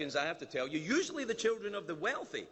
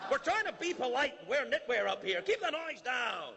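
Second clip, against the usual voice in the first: Canadians complaining upstairs; 6 semitones higher than usual. Retold or imitated. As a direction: nag the party below politely but firmly. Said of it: "and they're up there".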